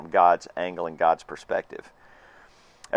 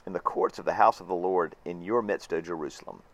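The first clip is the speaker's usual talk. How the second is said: scripture reading. Acted. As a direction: read the psalm as a prayer to the congregation. Reads the psalm aloud.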